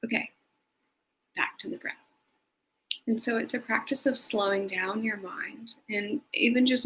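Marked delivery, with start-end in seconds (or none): 0.0-1.9 soft, quick whisper to oneself; whispered self-talk. Shown as a demonstration. Guide shows viewers the inner note, whispered. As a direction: whisper the note, then let it go. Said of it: "you can even then notice".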